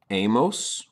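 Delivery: amos said slowly, Spanish vowels; Spanish ending amos. Shown as a demonstration. Teacher modeling amos for Spanish students. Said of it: "will end in".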